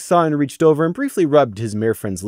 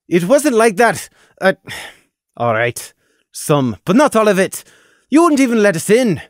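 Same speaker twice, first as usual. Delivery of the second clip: defensive; 8 semitones higher, 4 dB louder than usual. Acted. Tallow defends himself heatedly.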